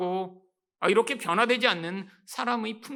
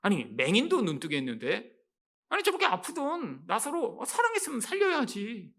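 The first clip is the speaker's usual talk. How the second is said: a hint of scornful mockery; mock sarcasm. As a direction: mimic the onlookers' scoff at Jesus. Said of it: "빈정거림과 조롱이 가득 담겨 있습니다".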